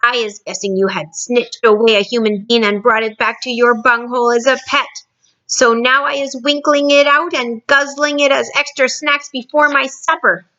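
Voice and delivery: gloating giant voice; menacing giant. Acted. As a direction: threaten like a hungry giant. Blood Bottler threatens.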